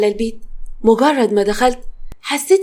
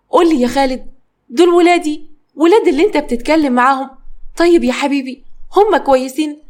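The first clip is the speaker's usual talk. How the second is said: anxious mother; 4 semitones higher than usual. Acted. Mother anxiously asks about kids.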